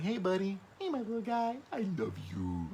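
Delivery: put-on high cutesy voice for a baby son; Daddy voice. Shown as a demonstration. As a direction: coo it like to a baby. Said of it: "I give him Daddy voice".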